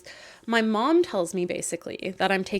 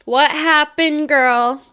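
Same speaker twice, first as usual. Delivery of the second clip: eager; 5 semitones higher, 10 dB louder, much slower than usual. Real, not acted. Eager reaction to story twist.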